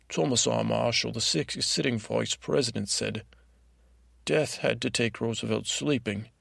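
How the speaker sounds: badly faked British accent, reciting a fact; dog's unconvincing British accent; attempted British accent. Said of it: "Maybe that's not a British accent".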